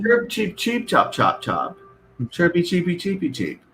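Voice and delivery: high chirpy bird noises; bird chirping. Shown as a demonstration. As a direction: chirp and cheep like a small bird. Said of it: "so it sounds like birds".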